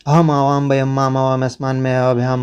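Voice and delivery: rattled-off rote recitation of the declension; quick classroom chant of the forms; reciting word forms. Shown as a demonstration. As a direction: run through the forms like a memorized list. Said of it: "अस्मद का रूप वहीं पे दिया होगा".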